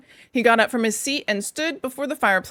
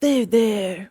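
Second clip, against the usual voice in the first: kindly. Acted. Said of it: "more kindly".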